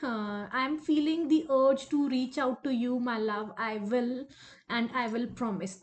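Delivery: slow, drawn-out confession; measured, lingering message with pauses; channelled lover. Acted. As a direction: voice the absent lover word by word. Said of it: "वो कह रहे हैं".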